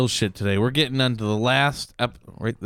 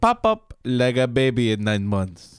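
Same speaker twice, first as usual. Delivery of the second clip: mock French accent. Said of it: "That's why I did that accent".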